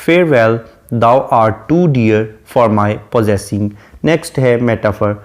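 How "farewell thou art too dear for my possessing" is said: each word drawn out slowly; slow poem recitation. Shown as a demonstration. Teacher quotes the poet addressing the fair youth, slowly. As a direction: quote the verse slowly and solemnly. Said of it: "address करते हुए कहता है".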